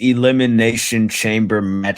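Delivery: holding back a sneeze; talking through a coming sneeze; about to sneeze. Real, not acted. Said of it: "I have to sneeze".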